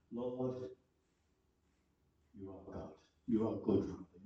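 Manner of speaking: quiet, reverent words to God; hushed prayer. Acted. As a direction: murmur it as a private prayer. Preacher voices David's whispered prayer.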